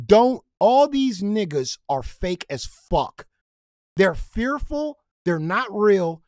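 slow, loud, angry rant. Real, not acted. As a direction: hammer it out furious and slow. Angry rant about fake community.

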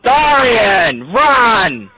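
real urgent call to run. Real, not acted. Player urging Darian to run, urgent call. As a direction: call out to hurry a teammate along.

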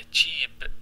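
تشيب said as a short breathy cheep; listen to تشيب, one tight syllable; pronunciation demo. Shown as a demonstration. Teacher models تشيب for the students, slowly and clearly. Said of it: "اسمع النطق مالته".

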